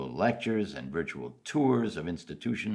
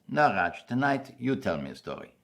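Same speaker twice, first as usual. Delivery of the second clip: put-on grandfather's thick immigrant German accent, higher start; 6 semitones higher than usual. Grandfather turning the bedtime story over to the child, thick German accent. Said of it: "He said in his thick accent".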